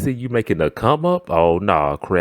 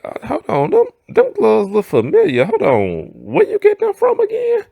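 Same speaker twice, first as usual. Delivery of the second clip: suspicious coworker, pitched higher; higher, sharp suspicious question; nosy coworker; 14 semitones higher than usual. Retold or imitated. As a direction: coworker sniffing out the gloves.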